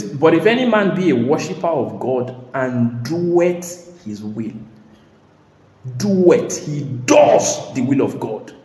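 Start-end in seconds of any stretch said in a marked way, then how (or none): 0.0-4.5 scripture reading. Shown as a demonstration. 6.0-6.7 doeth punched higher and louder; stress on doeth. Shown as a demonstration. Preacher stressing the word "doeth" to the church. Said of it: "repeated for emphasis".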